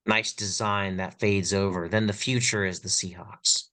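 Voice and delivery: languid, drawn-out art snob commentary; pretentious art critic. Pretend. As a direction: savour each word like a gallery critic. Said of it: "I sound like a dumb art critic".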